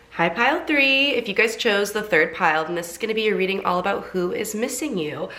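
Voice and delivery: blocked nose, sick voice; congested voice. Real, not acted. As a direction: talk through a stuffy nose. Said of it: "My voice sounds, like, very congested".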